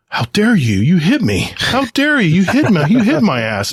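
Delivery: mock-outraged old man, high and climbing; incredulous old man. Old veteran blaming the truck driver, mock outrage. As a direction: ham up the indignant old driver. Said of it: "like, incredulous".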